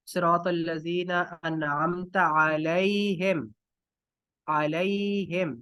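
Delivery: slow, drawn-out recitation; Quranic recitation. Shown as a demonstration. Teacher quoting Surah Fatiha to students, slow recitation. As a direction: recite with long, held vowels. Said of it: "सूरतुल फातिहा आप पढ़ते हैं".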